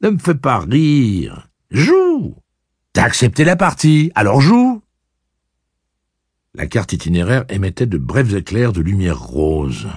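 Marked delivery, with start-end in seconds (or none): 0.0-4.8 menacing machine voice. Acted. Blaine taunting in game.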